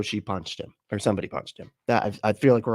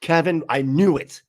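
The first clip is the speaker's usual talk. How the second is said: higher-pitched comic outrage; mock scolding; 4 semitones higher, 4 dB louder than usual. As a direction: play at blaming a bungling colleague. Acting out victim scolding demonologist Kevin.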